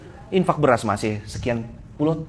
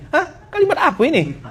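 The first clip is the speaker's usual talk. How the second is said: much higher mock disbelief; scoffing at a self-praise post, pitched very high; incredulous; 12 semitones higher, faster than usual. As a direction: ask it as though stunned. Mocking odd self-praise posts.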